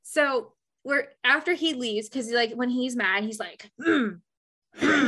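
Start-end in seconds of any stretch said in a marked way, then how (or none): 3.8-5.1 moody boss grumble. Retold or imitated. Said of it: "Like that".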